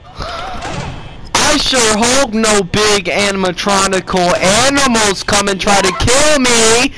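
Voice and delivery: drawn-out, rising mock hope; slow singsong dread, played up; mock-innocent hoping. Mock hope as threat looms.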